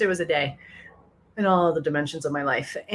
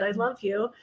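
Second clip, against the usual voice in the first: tender; 4 semitones higher than usual. Retold or imitated. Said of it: "she tenderly said".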